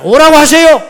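loud, high pleading shout; urgent plea. Retold or imitated. Peter begging Jesus to call him, loud high plea. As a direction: beg him to call you over.

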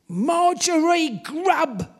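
loud, slow, accusing cry. A narrator's reading. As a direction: call her name out as an accusation. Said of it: "she accused".

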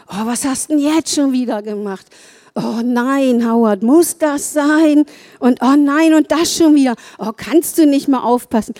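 whiny, complaining nag at Howard; mock nagging. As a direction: grumble like a fed-up wife.

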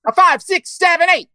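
loud high count-in. Pretend. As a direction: count in the dancers. Counting in a dance number.

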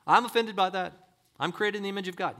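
high, loud protest; mock indignant listener pushing back; offended objector. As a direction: voice an affronted objection.

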